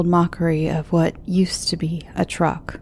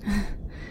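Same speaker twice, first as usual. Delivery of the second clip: short awkward little laugh; nervous giggle under breath; uncomfortable laugh; 3 semitones higher, 9 dB quieter than usual. Acted. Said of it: "She laughed uncomfortably".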